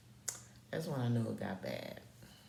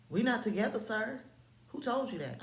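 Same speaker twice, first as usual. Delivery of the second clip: high, louder retold protest; indignant rebuttal; 10 semitones higher, 3 dB louder than usual. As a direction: shut him down in pitched-up disbelief. Acted rebuttal to his claim.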